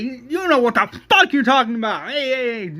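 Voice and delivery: angry yell. Retold or imitated. Daryl shouting down Shane, high loud angry retort. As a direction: throw it back hard. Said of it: "Daryl's like".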